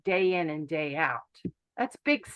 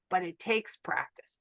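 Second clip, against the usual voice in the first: whisper; 3 semitones lower, 5 dB quieter than usual. Real, not acted. Closing line of pep talk.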